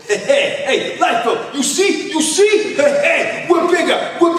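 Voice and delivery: high, loud mock bragging; boastful shout. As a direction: crow it like a gloating rival. Rival organizers boasting.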